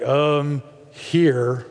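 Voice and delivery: low, flat, reluctant mumble; droll magi. Retold or imitated. Pastor mocks gloomy wise men handing over gifts, low and reluctant. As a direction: hand it over glumly. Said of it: "droll figures".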